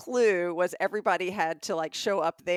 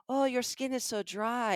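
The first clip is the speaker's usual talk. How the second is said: higher, put-on salesman concern; kiosk seller; 4 semitones higher than usual. Seller commenting on her hand, mock concern in a raised voice. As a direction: imitate a fussing lotion seller. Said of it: "he's like".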